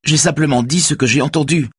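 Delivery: high, distressed self-defence; tearful. A narrator's reading. Helmsman defends himself to Raphaël, tearful. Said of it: "les larmes aux yeux".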